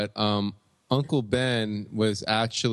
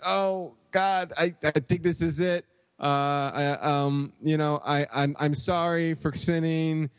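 lightly voiced dying uncle, higher; having a heart attack; 3 semitones higher than usual. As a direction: gasp out last words, a hint of hammed-up. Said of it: "he starts clutching his chest".

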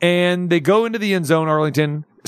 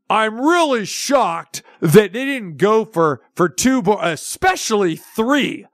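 slightly hammed-up announcer imitation, raised pitch; ham-and-egg announcer; 5 semitones higher, slower than usual. Mocking announcers shocked at no three-point try, hammed-up astonishment. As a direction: lightly put on a slow, shocked announcer. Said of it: "these ham and egg announcers are going".

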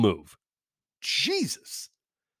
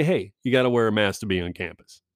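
polite reminder; 3 semitones lower than usual. Shown as a demonstration. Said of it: "That tone, that cadence".

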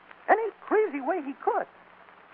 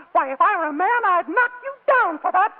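tearful indignation; 4 semitones higher, 4 dB louder than usual. Acted. Indignant Miss Ireland near tears.

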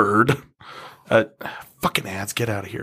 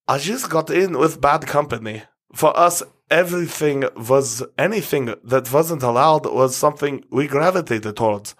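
put-on German accent; 2 semitones higher than usual. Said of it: "I just want to do the accent again".

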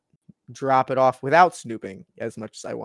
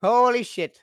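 higher and louder panicked swearing; manic; 9 semitones higher, 7 dB louder, slower than usual. Acted. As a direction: freak out, voice jumping up. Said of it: "talking like I'm crazy".

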